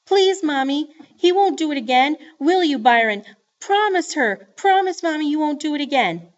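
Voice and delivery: put-on high, loud begging child; tearful pleading. A narrator's reading. Joey begs Mama to spare Byron, tearfully. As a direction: beg desperately as a sobby little girl. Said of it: "The tears really started coming".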